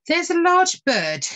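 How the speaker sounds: high, slow, urgent report; flustered lady. Acted. Lady alarming the Lord Steward, flustered and high. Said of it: "she said to him".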